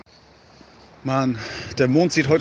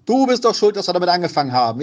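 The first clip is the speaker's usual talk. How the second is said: loud accusing; 6 semitones higher, 6 dB louder, faster than usual. Real, not acted. Blaming friend loudly.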